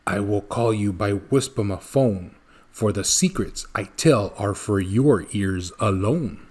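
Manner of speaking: put-on low, soft grumbling old hermit; low, hushed Once-ler voice; grunting Once-ler. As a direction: grunt it out low and secretive, like a recluse. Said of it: "Then he grunts".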